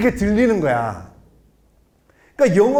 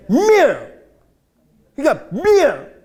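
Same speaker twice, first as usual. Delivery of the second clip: "밀" punched much higher and louder; stress on 밀; 8 semitones higher, 6 dB louder, slower than usual. Shown as a demonstration. Lecturer demos English stress, loud "밀". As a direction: hit "밀" hard and high. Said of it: "밀에 강세가 있어서 그래".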